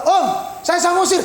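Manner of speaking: high-pitched imitation of a patient calling out; lightly hammed-up interrupter; mad congregant. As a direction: pipe up like an eager asylum patient. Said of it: "Orang gila".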